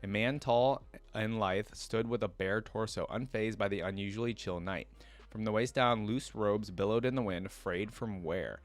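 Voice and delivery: steady lore-reading voice, measured and even; story narration. Acted. Streamer reads League lore to viewers, storyteller voice. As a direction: read it like the lore entry.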